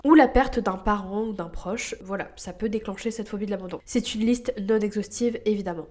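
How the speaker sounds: talking with a stuffed nose; blocked nose. Real, not acted. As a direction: speak through a blocked nose. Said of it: "Désolée si j'ai le nez bouché".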